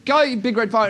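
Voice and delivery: tentative chant; acted uncertain repeat; half-hearted crowd echo. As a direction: echo it without full conviction. Crowd echoing, still unsure.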